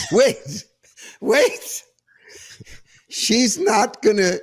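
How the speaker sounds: can't believe what she just heard; incredulous disbelief. Real, not acted. Host reacting to a pundit's claim, incredulous.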